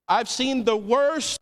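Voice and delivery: said slowly and firmly; slow, earnest statement of faith; sincere, slow testimony; own slow declaration. Shown as a demonstration. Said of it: "we say this in the church".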